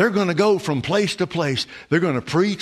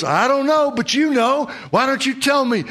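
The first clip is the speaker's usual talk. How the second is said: John answering; 9 semitones higher than usual. Acted. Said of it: "And John goes".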